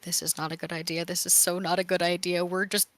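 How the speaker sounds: fast, run-on fretting as if under the breath; muttered fretting. Acted. Val dreads walking into another death house, fretful rapid muttering. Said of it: "under his breath is just like".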